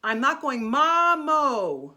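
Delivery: mamo held long and slow, pure "o" with no glide; sustained singer's "mamo"; pure vowel mamo. Shown as a demonstration. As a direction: stretch out mamo with a clean single vowel. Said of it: "There's no diphthong".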